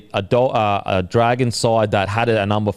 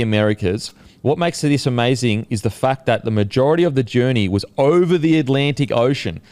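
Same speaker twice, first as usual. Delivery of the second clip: measured podcast headline read; news story read. Real, not acted. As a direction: present the odd story like a newsreader. Continues reading the news story.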